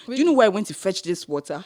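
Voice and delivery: mock confrontational question; indignant retort. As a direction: push back at her with some force. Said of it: "Wait, you told her?".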